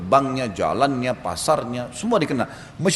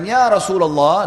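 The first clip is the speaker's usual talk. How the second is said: slow, raised call; loud call; 4 semitones higher, 5 dB louder, slower than usual. Retold or imitated. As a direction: call out loudly so all hear. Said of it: "dengan suara keras". (memanggil dengan suara keras)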